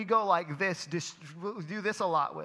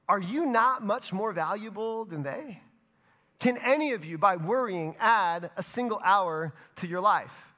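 scripture reading; 2 semitones higher than usual. Acted. Pastor reading scripture to the congregation, measured. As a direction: read the verses with weight.

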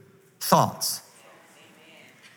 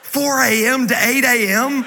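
incredulous; 6 semitones higher, slower than usual. Retold or imitated. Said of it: "on the inside, I was going".

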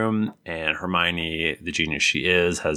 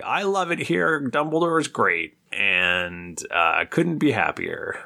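cheery mock teacher; 5 semitones higher than usual. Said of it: "Grubbly Plank is like".

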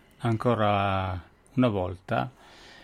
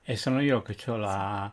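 talking around a candy; words round a sweet in the mouth; sucking candy. Real, not acted. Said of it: "ho la caramella in bocca".

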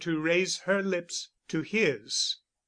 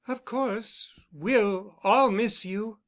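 dull, slow, a touch subdued; 5 semitones higher, slower than usual. A narrator's reading. Camilla feigning carelessness at Bent's departure, dull and slow. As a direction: say it slowly with mild listless weight. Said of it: "she said dully".

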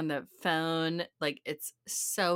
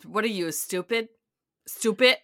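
mock Jersey accent, second "stupid" louder; Jersey mom; 2 semitones higher, 4 dB louder than usual. Mom to daughter in disbelief, Jersey accent. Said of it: "quote mom in her full realness".

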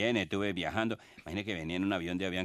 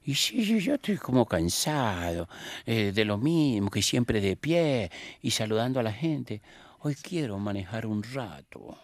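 put-on slow, higher-pitched Argentine-accented pope; 5 semitones higher, slower than usual. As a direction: play a weary pope with a drawn-out Argentine lilt. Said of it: "así con el acento argentino".

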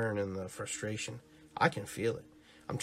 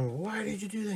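mock shocked gangster; 11 semitones higher than usual. Gangsters questioning the Joker.

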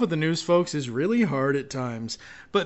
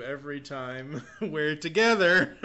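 laughing. Retold or imitated. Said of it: "sounds similar to".

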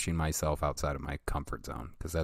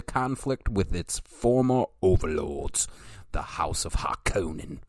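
reading aloud like an encyclopedia entry; steady, measured reading voice; methodical reading voice; 2 semitones higher than usual. Shown as a demonstration. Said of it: "in my melodical, methodical voice".

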